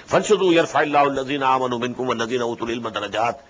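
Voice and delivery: measured chanted Arabic recitation; Quran recitation. Acted. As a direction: intone the verse as in tilawa.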